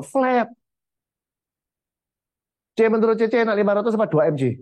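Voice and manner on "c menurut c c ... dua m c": rattled off quickly in one even tone; emotionless. Shown as a demonstration. Sales trainer showing agents how not to pitch, emotionless. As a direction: recite it fast with no emotional rise and fall. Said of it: "Ya kalau emosi heblas ya kayak gini".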